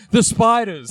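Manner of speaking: mock crazed outburst; crazed mother. Co-host quoting the film's asylum-bound mother, lightly crazed. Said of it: "his mother crazy in an asylum somewhere who says".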